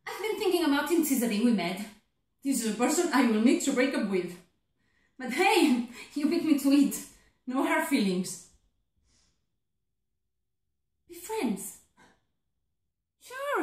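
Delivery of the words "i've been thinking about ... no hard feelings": louder, brisk brush-off; defensive bravado. Acted. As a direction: act like the breakup is no loss. Defensive reply to being dumped.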